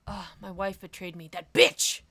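lightly voiced aggrieved husband, dropping low; mock brooding husband. Voicing Montag lamenting his wife's betrayal, mock brooding.

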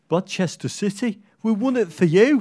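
high, loud Black Country chant; mock a West Brom fan chanting; bad West Brom accent. Pundit mocks West Brom fans with a bad West Brom accent. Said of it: "That's a terrible West Brom accent".

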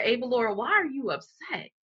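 a patient inner voice nudging her; lightly voiced calm spirit. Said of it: "spirit kicked in and said".

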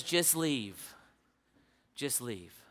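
soft, low just leave; tired dismissal. Retold or imitated. Dying man quietly sending the preacher away, soft. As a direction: fade out the second leave. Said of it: "And he says".

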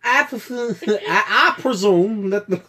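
words broken by laughter; laughing while talking. Real, not acted. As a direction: try to talk through giggles. Laughing while trying to talk.

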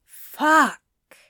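exasperated outburst; dismayed curse. A narrator's reading. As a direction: swear it, caught out. Caught out, swears.

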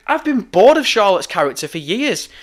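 "character" picked out with extra force; stress on character. Real, not acted. Fan qualifying his criticism of Charlotte, stressing "character". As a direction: lean emphatically on "character". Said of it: "I emphasize the word character".

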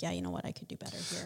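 low, soft humble admission. Retold or imitated. Wife shows how to admit a fault, softly and low. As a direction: concede it gently under the breath. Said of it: "be like".

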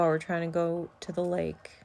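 soft unvoiced whisper. Real, not acted. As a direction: whisper it to yourself. Quiet aside.

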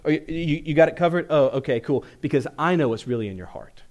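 mocking, needling big brother taunt; sarcastic older brother. Older brother Eliab taunts David, sarcastic and belittling. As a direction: rub in the word few, sneering. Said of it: "he even adds in that word few".

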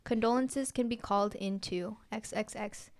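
measured, even read-aloud delivery; story narration. A narrator's reading. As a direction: read it out clearly like a written story. Reads own story aloud.

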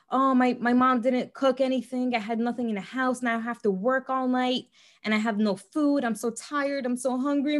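lightly voiced self-pitying boyfriend; whiny victim voice. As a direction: whine it like a hard-done-by victim. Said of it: "manipulators love playing the victim role".

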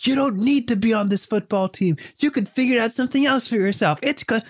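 high-pitched, earnest acted pep talk; consoling. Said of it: "And, you know, he's consoling".

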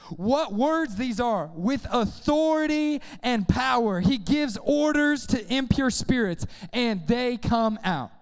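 slow, emphatic marvelling; amazed proclamation. Acted. Crowd amazed at Jesus' authority, slow and emphatic. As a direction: draw out each phrase in awe. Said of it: "all the people were amazed and said to each other".

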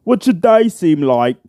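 mock their small talk in a British accent. Podcaster impersonating rivals looking at their computer, British accent. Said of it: "where I impersonate them on my podcast".

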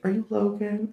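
lightly voiced teacher asking his name; a hint of a polite teacher.

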